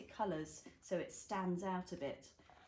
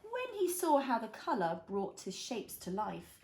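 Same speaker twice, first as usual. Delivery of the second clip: put-on reading to a toddler; 2 semitones lower than usual. A narrator's reading. Reads picture book to child.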